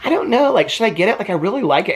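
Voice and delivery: high, wavering indecisive whine; Janelle's dithering. Retold or imitated. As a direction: mimic someone who can't decide about a wreath. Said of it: "And she's like".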